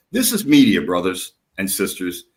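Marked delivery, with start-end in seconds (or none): none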